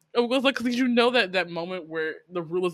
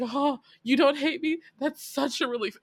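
higher-pitched imitation of delighted relief; happy relief; 6 semitones higher than usual. Drunk man relieved she doesn't hate him, imitated happy relief. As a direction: act out a touch of happy relief. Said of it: "whenever Jiho as a character is happy".

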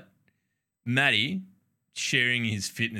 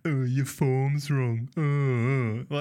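mocking gym know-it-all; much slower than usual. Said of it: "that'll be like".

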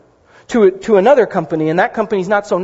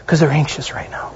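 whispered aside; 4 semitones lower than usual. Real, not acted. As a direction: drop to a whisper for this remark. Aside inside quoting Jesus.

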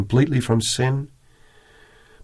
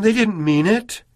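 higher, pleading voice making excuses for the people; mock pleading excuse; 4 semitones higher than usual. Moses as he did not pray, a higher mock pleading excuse. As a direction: beg weakly, as if excusing naughty children. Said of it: "But he didn't say".

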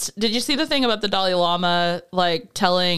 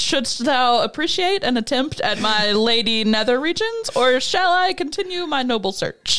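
alien book narration. Retold or imitated. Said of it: "sounds like the Alien book".

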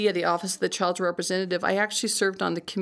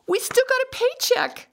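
higher imitated boss delivering a reassuring joke; imitating boss; 3 dB louder than usual. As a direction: boss voice, much higher and put-on. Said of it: "He goes".

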